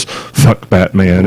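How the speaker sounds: slow, overly dramatic breathy delivery. Retold or imitated. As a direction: breathe it out like a brooding hero. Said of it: "in an overly dramatic, breathy voice".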